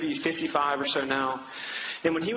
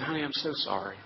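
softly consoling father; a gentle, understated retold apology; tender sympathy, retold; 2 semitones lower, 4 dB quieter than usual. Father consoles his sad daughter, tender and subdued.

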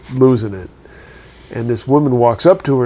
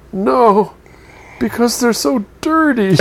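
high, laughing through the punchline; lightly voiced widow, laughing; 8 semitones higher, slower than usual. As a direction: deliver the payoff, cracking up. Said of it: "And she says".

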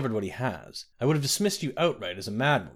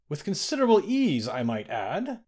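booming; 5 semitones higher than usual. A narrator's reading. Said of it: "Lord Errol's voice boomed".

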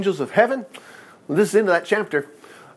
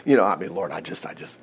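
much lower, much softer hesitant mumble; mock doubter; 11 semitones lower, 6 dB quieter than usual. Preacher mimics a believer too unsure to ask the Lord, fading out. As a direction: let the doubt fade to nothing. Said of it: "and you're saying".

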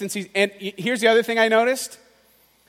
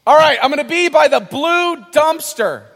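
loud; 5 semitones higher, 5 dB louder than usual. Retold or imitated. Old-days meeting plan quoted.

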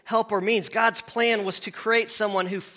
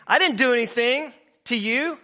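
higher, louder, fast snapping reply; barking back; 7 semitones higher, 4 dB louder, faster than usual. Acted. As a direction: snap right back at your spouse. Acted spouse barking back.

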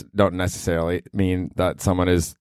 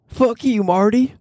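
much higher, shouted TV line; Julia Garner Ozark quote; slower than usual. Retold or imitated. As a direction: spit it out like the Ozark character. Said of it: "Julia Garner ... from Ozark".

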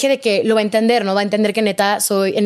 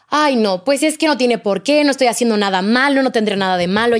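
defensive. Retold or imitated. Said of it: "como muy a la defensiva".

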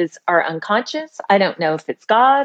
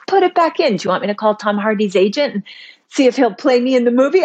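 eager ex-husband; 4 semitones higher, faster than usual. Retold or imitated.

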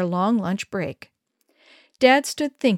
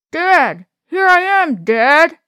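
calling out; 8 semitones higher, 9 dB louder, slower than usual. Acted. Boy trapped, calling out.

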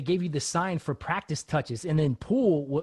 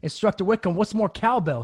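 higher, louder confused student; retold bewildered query, pitched up; puzzled question; 6 semitones higher, 4 dB louder than usual. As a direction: ask the instructor, baffled. Acting out his puzzled question to instructor.

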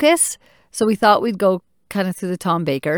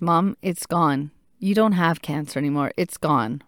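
reassuring; 2 semitones lower than usual. Retold or imitated. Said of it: "a statement to reassure both him".

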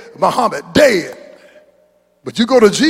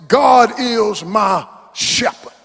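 preached psalm quote; much slower than usual. Acted. Quoting psalmist, preaching shout.

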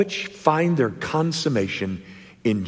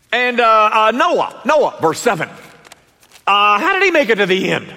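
higher, faster, hesitant asker with a laugh; stammering questioner; 10 semitones higher, 5 dB louder than usual. Acted. Preacher voicing a congregant asking about Abel, halting and amused. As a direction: play a flustered student fumbling the question.

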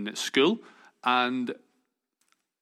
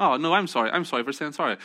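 higher, playful mock apology; over-apologetic; 4 semitones higher, faster than usual. Canadians apologizing to one another, mock over-apologetic. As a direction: imitate someone insistently over-polite.

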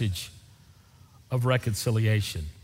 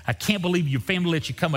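quick, higher retold scolding; fussing at him; 5 semitones higher, faster than usual. Preacher fussing at Sam about his family, exasperated. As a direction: rattle off an exasperated complaint. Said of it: "I started fussing at him again".

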